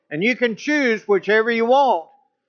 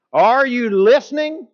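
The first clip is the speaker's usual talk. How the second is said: louder, higher repeat of the question; stronger repeat; 5 semitones higher, 4 dB louder than usual. Retold or imitated. Drill sergeant repeats his question with more force. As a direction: hit it harder the second time, drill sergeant style. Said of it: "emphasis that is stronger".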